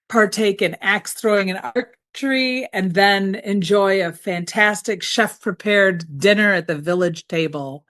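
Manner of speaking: movie trailer narrator voice, lightly done; a hint of a Morgan Freeman voiceover. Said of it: "in my best, uh, Morgan Freeman voice".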